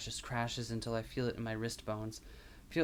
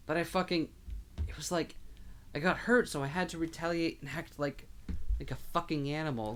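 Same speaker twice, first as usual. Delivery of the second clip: distraught; 4 semitones higher than usual. Acted. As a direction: pour it out in anguish. Diego breaking down.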